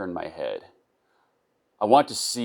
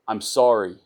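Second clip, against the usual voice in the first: tearful apology; 4 semitones higher, 6 dB louder than usual. Acted. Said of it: "Tears crashing down".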